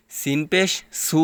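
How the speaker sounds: সিন and সু with an ordinary hissed s; crisp s in সিন and সু; plain s. Shown as a demonstration. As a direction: say সিন পেশ সু with a clear plain s. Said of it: "নরম হবে".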